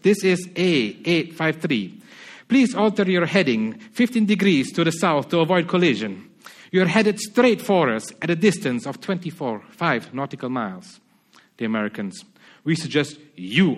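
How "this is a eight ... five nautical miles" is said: a hint of a Spanish radio operator; Spanish lighthouse keeper politely warning the ship, faint Spanish accent. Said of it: "try to put on a Spanish accent".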